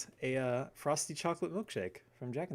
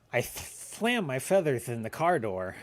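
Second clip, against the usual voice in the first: Daffy Duck; 3 dB louder than usual. Shown as a demonstration. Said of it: "Can you do a Daffy Duck impression?".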